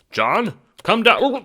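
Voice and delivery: loud, slow call up the stairs; father calling his son down from the garage. A narrator's reading. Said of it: "He raised his voice to call for his son".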